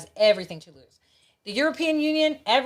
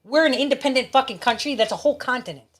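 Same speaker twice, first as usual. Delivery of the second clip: higher-pitched, indignant mock telling-off; pissed off; 3 semitones higher than usual. Imagined Australian telling England to leave, pissed off. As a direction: act out an irritated brush-off. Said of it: "I'd be pissed".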